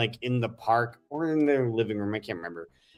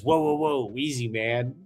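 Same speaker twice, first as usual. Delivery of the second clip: calm the guy down, voice rising; mock calming alien; 5 semitones higher than usual. Alien calming startled human.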